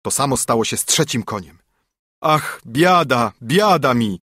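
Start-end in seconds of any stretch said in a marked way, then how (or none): 2.2-4.2 slow, drawn-out cry of woe; despairing wail. A narrator's reading. Carter despairs over losing his horses, wailing slowly. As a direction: lament like tearing your hair out. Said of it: "rwał się za włosy".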